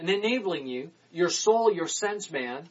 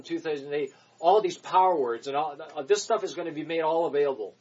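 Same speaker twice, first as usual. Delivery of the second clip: ordinary talk, nothing marked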